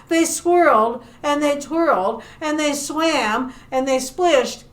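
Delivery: lively, animated storytelling; story narration for children. Acted. Librarian telling children about a shark among fish, animated storytelling. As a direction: tell it to little listeners with playful emphasis.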